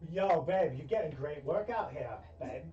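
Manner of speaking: lightly voiced bro accent for the himbo; Jeremy's accent. Himbo boyfriend Jeremy spotting his girlfriend, in a light bro accent. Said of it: "you know what I said about the accent".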